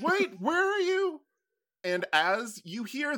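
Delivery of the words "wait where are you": put-on old prospector. NPC confused.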